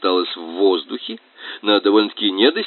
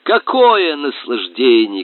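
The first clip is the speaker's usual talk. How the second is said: ecstatic cry; 3 semitones higher, 3 dB louder, slower than usual. Acted. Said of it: "кричал фанерный".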